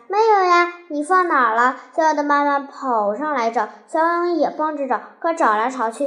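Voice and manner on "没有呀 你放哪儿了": raised, higher-pitched outburst; angry shout. A narrator's reading. Boy answers his mother about the missing toy, shouting. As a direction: shout it up high, louder at the start. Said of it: "大吼起来".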